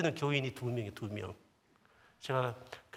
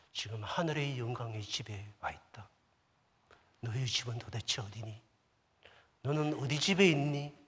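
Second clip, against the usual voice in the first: inner voice of the Lord. Retold or imitated. Voicing the Lord's inner voice. (조용하고 엄숙한 주님의 음성)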